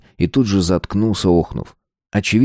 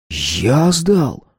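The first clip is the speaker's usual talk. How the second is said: raised-pitch offended retort; indignant; 6 semitones higher than usual. A narrator's reading. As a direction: question the accusation indignantly. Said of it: "возмутился Стас".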